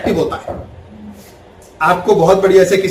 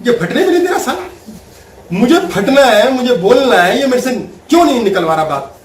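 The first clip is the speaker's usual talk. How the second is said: higher, fast exasperated wife; wife annoyed that husband won't provoke her, higher and quick; frustrated wife; 3 semitones higher than usual. Retold or imitated. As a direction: vent like she's bursting to fight. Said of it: "अब वो देखती है".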